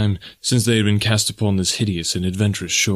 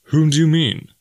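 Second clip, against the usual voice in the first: higher, louder, confused; puzzled question; 7 semitones higher, 3 dB louder than usual. Acted. Clayton to Jane, louder puzzled question. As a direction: ask sharply who.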